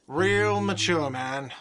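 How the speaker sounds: whiny, slow yell after someone; whiny shout. Acted. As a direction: shout it sulkily as they leave. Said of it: "a whiny voice shouts".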